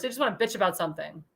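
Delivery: quiet fast curse. Real, not acted. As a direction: drop the voice low and rush the curse out. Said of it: "I'm gonna curse".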